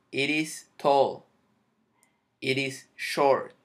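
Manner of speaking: "It is" flowing with the T tapped like an R, slow; linked T as R. Shown as a demonstration. Teacher modelling linked pronunciation in example sentences, slow. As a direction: tap the T so "it is" becomes "iris". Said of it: "como que si la T fuese una R".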